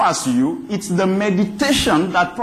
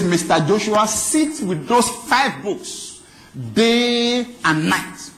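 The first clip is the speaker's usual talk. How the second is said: God speaking; 2 semitones higher, slower than usual. Acted. God voiced speaking to Joshua.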